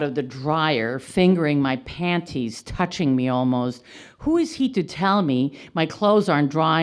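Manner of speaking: animated verse reading with stressed openings; poetry reading. Real, not acted. Poet reading about the laundry neighbor, poetry reading. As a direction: read the poem line by line, falling at phrase ends. Reads title poem aloud.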